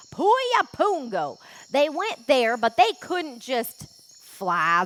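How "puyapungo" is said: Puyapungo slow, each syllable pu-ya-pun-go spelled out; careful pronunciation. Shown as a demonstration. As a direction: sound out Puyapungo deliberately. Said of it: "the names in this jungle are a little crazy".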